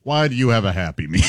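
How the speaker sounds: a hint of a gotcha reporter confronting someone; Chris Hansen impression. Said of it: "some of those Chris, Chris Hansen things".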